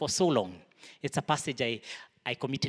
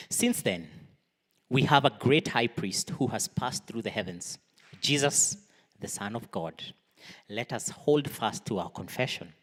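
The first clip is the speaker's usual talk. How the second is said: scripture reading; 4 dB louder than usual. Real, not acted.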